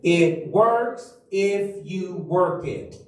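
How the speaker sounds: WORKS stressed, slowed phrase; slow emphatic motto. Shown as a demonstration. Pastor to congregation, slow motto with works stressed. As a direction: lay the word works down slowly. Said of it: "Say that with me".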